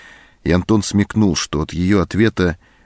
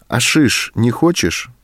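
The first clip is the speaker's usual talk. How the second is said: annoyed refusal; 6 semitones higher than usual. A narrator's reading. Sergeant refuses Anton his gun, angry. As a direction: scoff him down. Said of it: "рассердился сержант".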